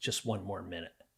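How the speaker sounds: quiet whispering. Retelling an earlier time someone whispered: imitating a whisper. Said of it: "somebody whispered in my ear".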